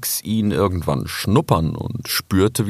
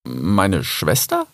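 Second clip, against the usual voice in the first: slow, doubtful question; hesitant, questioning disbelief; skeptical; much slower than usual. Acted. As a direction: draw the words out, rising in doubt. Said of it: "fragte Rix skeptisch".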